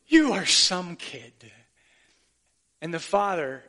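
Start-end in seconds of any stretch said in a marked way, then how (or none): 0.1-1.3 slow Irish lilt, a little louder; mild Irish dad repeating his praise; Irish father's blessing. Retold or imitated. Irish father hugging his son on the green, slow Irish accent. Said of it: "the father in his Irish accent say".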